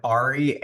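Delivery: Ari with an open AH, AH-ree; first pronunciation of Ari. Shown as a demonstration. Host lists the ways Ari's name gets said, Ari as AH-ree. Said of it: "all three people pronounced Ari's name differently".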